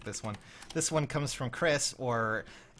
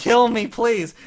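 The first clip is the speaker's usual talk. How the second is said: mock plea; 9 semitones higher, 12 dB louder, slower than usual. Mock despair over donations.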